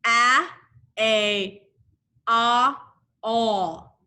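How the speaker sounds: first A called out loud, the rest lighter; sound drill. Shown as a demonstration. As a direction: lead the class through each sound. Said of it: "Let's do it one more time".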